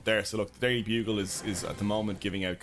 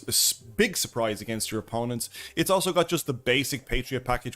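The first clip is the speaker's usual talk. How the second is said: video intro presenting; 3 dB louder than usual. Real, not acted. Streamer recording the intro for his deck video, presenting. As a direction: present it to camera with punched key words.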